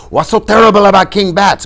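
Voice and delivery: high, loud incredulous question; loud, high-voiced puzzlement; questioning Inigo. A narrator's reading. Inigo starts questioning screaming Fezzik.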